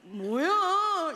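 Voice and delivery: retold question. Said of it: "이랬더니".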